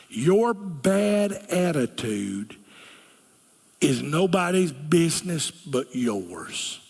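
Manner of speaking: slow, pointed line delivered through a smile; said smiling. Real, not acted. Preacher teasing the congregation with a deliberate smile. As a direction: smile sweetly while you land the jab. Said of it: "I'm gonna smile when I say this".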